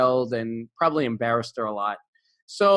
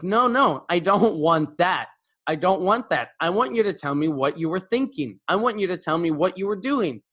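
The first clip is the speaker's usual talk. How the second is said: losing temper; 3 semitones higher than usual. Retold or imitated. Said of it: "starting to lose my temper".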